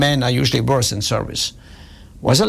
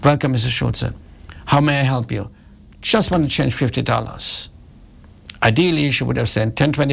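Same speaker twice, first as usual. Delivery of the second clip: lower, gentle personal greeting; ideal personal service; 4 semitones lower than usual. Retold or imitated. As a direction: welcome him like a valued regular. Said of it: "that is the ideal service, personalized".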